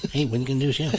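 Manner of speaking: laughing through the quote; laughing imitation. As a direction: giggle through an impression of a friend. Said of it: "I'm making him sound like that".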